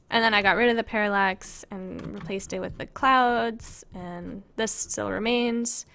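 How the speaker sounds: breathless, short of air; out of breath. Real, not acted. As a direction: talk while winded. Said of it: "I'm out of breath".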